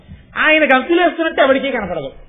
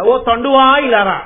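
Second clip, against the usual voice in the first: calling out; 7 dB louder, slower than usual. Retold or imitated. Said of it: "అన్నట్టు".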